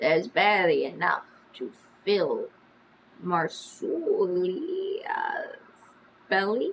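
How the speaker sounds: lisping voice, wet with phlegm. Voicing a twin who taunts the group: lisping voice wet with phlegm. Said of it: "the twin says in a lisping voice wet with phlegm".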